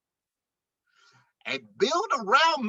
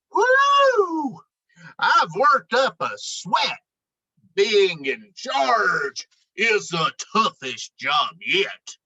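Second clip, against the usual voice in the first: bossy moose puffing. Acted. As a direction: play the self-important moose catching his breath. Moose boasts, mopping his brow.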